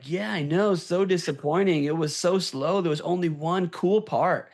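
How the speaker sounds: mock a disappointed rider agreeing with his buddy; disappointed guy. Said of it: "the other person was like".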